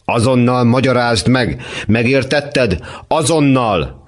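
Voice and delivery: father scolding his son, angry commanding. Acted. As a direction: order him to explain now. Father demands explanation.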